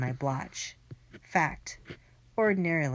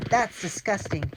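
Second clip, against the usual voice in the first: yelled; 3 semitones higher than usual. Acted. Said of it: "Mister Bradford yelled".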